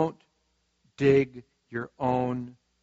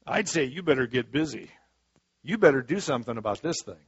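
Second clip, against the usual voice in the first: voice of the enemy. Acted. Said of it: "that wonderful voice of the enemy".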